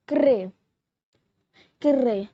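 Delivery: craie said KRAY; French craie. Shown as a demonstration. Teacher teaching viewers the French word craie, clear demo. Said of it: "We say chalk in French".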